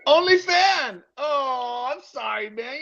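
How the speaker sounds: high-pitched, cooing mock sympathy; mock pity. Consoling someone with only one fan, mock pity. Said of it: "That sounds so s-, lonely".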